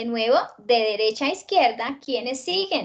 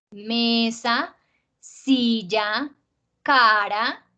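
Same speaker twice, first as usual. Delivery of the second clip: "Mesa", "silla", "cara" con fuerza en la primera sílaba; acento grave; much slower than usual. Shown as a demonstration. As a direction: separa las palabras y alarga ME, SI, CA de "Mesa", "silla", "cara". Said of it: "sí tienen el acento ahí en el azulito". (ejemplos pausados: "Mesa", "silla", "cara", penúltima marcada)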